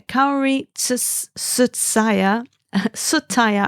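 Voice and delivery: halting attempts at "Tsutsaya", then "Tsutaya" after a laugh; stumbling over a name. Real, not acted. Vlogger trying to pronounce a pattern designer's name, stumbling over "Tsutaya". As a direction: stumble slowly through "Kaori Tsus-, Tsutsaya, Tsutaya", restarting the surname. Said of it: "I can't even say it".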